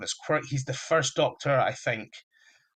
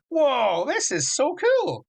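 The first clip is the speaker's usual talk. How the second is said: much higher, slow gasp of awe; delighted wonder; 13 semitones higher, 5 dB louder, slower than usual. Retold or imitated. Doctor watching the Goblin King's baby scene, mock-delighted and much higher. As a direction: marvel like a kid seeing something amazing. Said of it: "and he's like".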